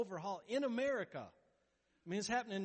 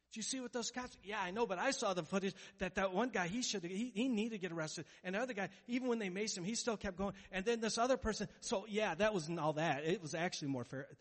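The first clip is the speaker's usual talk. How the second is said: gossiping friends; 3 semitones higher, 5 dB louder than usual. Retold or imitated. Gossiping friends voiced in sermon.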